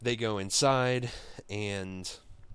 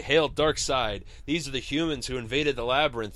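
hailing shout; 4 semitones higher, 4 dB louder than usual. Acted. Minions hail Darkseid.

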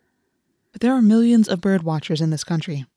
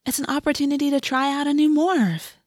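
higher-pitched coaxing encouragement; gentle chiding; 8 semitones higher than usual. A narrator's reading. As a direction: talk a grumbling friend round. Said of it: "Cassie chided gently".

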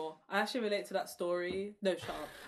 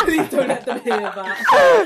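loud, slow plea through laughter; laughing plea; 7 semitones higher, 16 dB louder, much slower than usual. Real, not acted. Begging the editors to cut a flop, slow and loud through laughter. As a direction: beg them through helpless laughter.

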